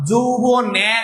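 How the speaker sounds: "যৌবনে" with the last e opened to æ; wrong pronunciation. Shown as a demonstration. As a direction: say "যৌবনে" as jou-bo-næ. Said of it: "আমরা তো কেউ তো বলি না".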